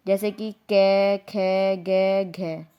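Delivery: "कै" "खे" "गै" "घै" spoken slowly and loudly, one by one; consonant sounds demonstrated. Shown as a demonstration. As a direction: drill each consonant syllable aloud for the class. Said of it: "अत्र व्यंजनम केवल". (व्यंजन ध्वनियाँ धीरे और ज़ोर से बोलना)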